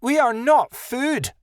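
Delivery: high, indignant protest; slow, high-pitched defensive cry; defensive yip. A narrator's reading. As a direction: yip it back, pitched far up. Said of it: "Adelaide yipped defensively".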